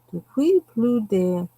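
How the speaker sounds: mock French reading voice; reading the French tin with a put-on French accent; fake French accent. Shown as a demonstration. Faking French while reading the pencil tin. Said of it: "will you hear me fake that".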